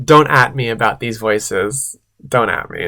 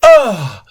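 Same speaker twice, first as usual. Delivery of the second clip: higher, exaggerated "ugh"; mock overwhelmed groan; 7 semitones higher, 3 dB louder than usual. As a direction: let out a hammed-up groan. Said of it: "way too much to handle".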